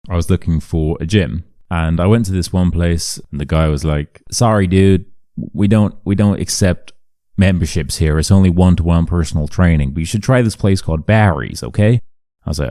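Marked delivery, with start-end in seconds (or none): 4.3-12.0 put-on friendly Canadian dude accent. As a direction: imitate a Canadian gym guy. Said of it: "all Canadians sound like that".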